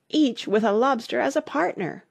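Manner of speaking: high-pitched exclamation; crying out. A narrator's reading. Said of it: "cried the Gryphon".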